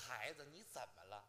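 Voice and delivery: put-on soft, gentle old master consoling a child; kindly master. Imitating the master gently comforting his apprentice, soft and tender. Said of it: "他怎么说的？".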